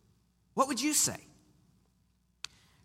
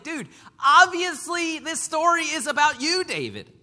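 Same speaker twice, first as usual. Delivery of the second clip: casual Nathan; 8 semitones higher, 5 dB louder than usual. Acted. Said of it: "Nathan's like".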